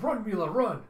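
loud, high warning yell; urgent shout. Acted. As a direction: scream at the child to flee. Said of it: "Fra Fra's band is just screaming".

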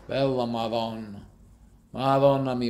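"Bella Madonna" lento, com o O italiano; "Madonna mi" à italiana; Italian exclamation. Shown as a demonstration. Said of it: "Madonna comes from the Italian word Madonna".

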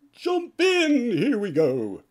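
loud, high call to jump aboard; excited shout. Acted. Cat in the Hat calling the kids aboard, high excited shout. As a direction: shout it out like starting a ride.

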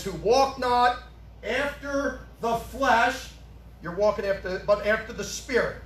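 words drawn out one by one; careful, stretched scripture reading; slow reading. Shown as a demonstration. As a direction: read the verse slowly, word by word. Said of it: "Now watch how it does it".

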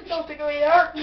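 laughing while tickled; being tickled. Real, not acted. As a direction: squirm and laugh through it. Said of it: "'cause it tickles".

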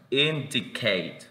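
"indicate" said slowly with a short first I; slow, careful model of "indicate"; careful articulation demo. Shown as a demonstration. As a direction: stretch out "indicate" for learners, opening I barely articulated. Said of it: "Vean la articulación".

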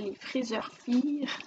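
English name "les Friseurs Fire" said with a French-Canadian accent; reading the English pattern name "les Friseurs Fire" with her francophone accent. Real, not acted. Apologizing to viewers for her accent, "les Friseurs Fire" with a French-Canadian accent. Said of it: "Désolée pour mon accent très francophone".

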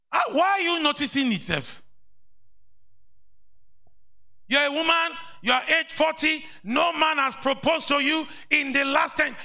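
high, sing-song mock of a gossip. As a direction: make fun of the superstitious talk. Mocks superstitious talk in a put-on voice.

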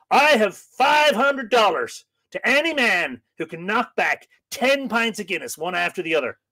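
put-on American accent. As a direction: announce it to the room in an American accent. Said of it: "That's a good American accent".

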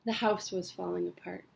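measured spoken-word delivery with pauses between phrases; steady, deliberate poetry recital; poem reading. Acted. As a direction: read your own poem aloud, line by line. Reads own poem aloud.

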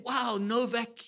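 attempted British accent of an interviewer; light imitation of a British accent. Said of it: "in a beautiful British accent".

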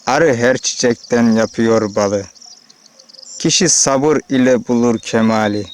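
slow, measured verse reading; poem recital. Acted.

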